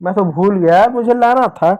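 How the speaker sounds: lightly voiced annoyed उफ; mock forgetful sigh. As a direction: huff as if you forgot something. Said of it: "बोलता है". (भूल जाने पर हल्की उफ़)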